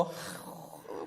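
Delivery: slow breathy whispered sigh of exhaustion; long weary sigh. Acted. Jesus in the garden sighing, slow and worn out. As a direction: let all the air out, worn out. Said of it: "슬럼프에 빠졌겠냐고요".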